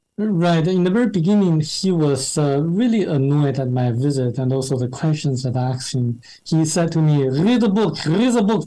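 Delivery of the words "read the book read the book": put-on, thick, heavy French accent, pitched up. Retelling what an annoyed author said to a visitor: imitating a thick French accent. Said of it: "in his thick French accent".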